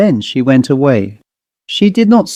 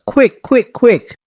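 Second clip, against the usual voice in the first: much higher, frantic repeated call; urgent cry; 9 semitones higher, slower than usual. Acted. Frightened boarder hurrying the sisters, frantic high cry. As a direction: cry it out in panic. Terrified woman urging help.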